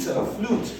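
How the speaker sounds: flute breathed in a whisper, no voice. Shown as a demonstration. Teacher repeating the word for pupils, whispered. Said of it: "U space E as in flute".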